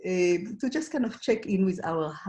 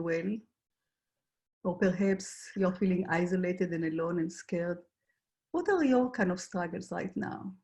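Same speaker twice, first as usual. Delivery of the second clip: guided reflection. Acted. Facilitator asks the group to notice their struggles, guided reflection. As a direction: guide listeners inward, leaving room between questions.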